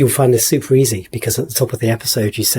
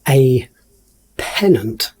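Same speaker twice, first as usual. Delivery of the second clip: magician voice; much slower than usual. Acted. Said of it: "I'm saying all of this in my, like, magician voice".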